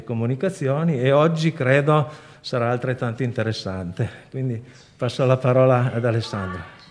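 slightly winded, catching breath; a little breathless through a face mask. Real, not acted. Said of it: "Scusate il fiatone, ma è la mascherina".

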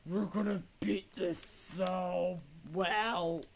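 mock-confident hero voice; slow, drawn-out put-on swagger; the speaker. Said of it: "he's so confident".

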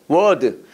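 "word" as a pronunciation model, tongue up. Shown as a demonstration. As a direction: say "word" lifting the tongue, not pushing it back. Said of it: "혀 세워".

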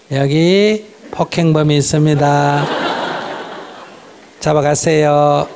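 slow, deliberate call to police; calm, slow report. Shown as a demonstration. Wife calmly reports her husband to police, slow. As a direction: report it slowly with a laugh. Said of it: "이렇게 하면 돼요".

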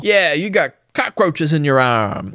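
imitating a mouth full of cockroaches; mock magician voice. Host mocks the magician's cockroach trick, mocking impression. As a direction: put on a silly magician's voice.

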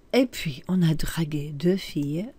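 unvoiced, conspiratorial whisper; whispered cheeky line. Teacher reading a cheeky French line as a whispered secret.

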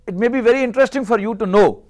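usual speaking voice

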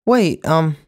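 loud, high call; urgent call to a departing driver. A narrator's reading. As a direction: shout after the leaving car. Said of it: "Joey called".

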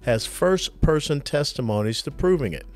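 polished, upbeat host-read advertisement; sponsor ad read. Acted. Host pitching concealed carry membership to listeners, ad read. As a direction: read it like a podcast sponsor spot.

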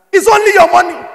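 high, loud push on only; preacher's emphatic shout; shouted emphasis. Real, not acted. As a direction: shout it to the crowd. Preacher exhorting.

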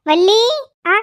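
high, loud startled question. Acted. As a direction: jump at the name. Startled at hearing the name. (திடுக்கிட்ட கேள்வி)

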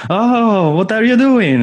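high-pitched theatrical dismay; acted exasperation, pitch swooping up; exasperated Italian spy. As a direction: scold down the phone in a high, hammed-up wail. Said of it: "you had a spy calling back down to Italy and it's like".

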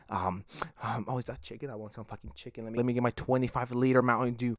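a hint of a sloppy superfan, trailing off quietly; mock fan voice. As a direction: mumble like a lazy fanboy distracted by chicken. Mocking a fan who eats chicken.

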